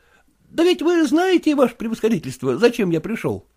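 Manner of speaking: высокий голос жалобного молодого просителя; жалуется генералу на тяжёлую жизнь; голос Куцина. Acted. Kutsin voiced again. (молодой проситель Куцин жалуется генералу, голос выше)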